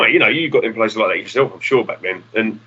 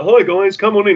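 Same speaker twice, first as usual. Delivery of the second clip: higher, sugary welcome; mock friendly greeting; 9 semitones higher, 3 dB louder than usual. Imagined friendly bikers greeting kids, higher mock sweetness. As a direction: pretend the bikers were sweet hosts. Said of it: "They wasn't like".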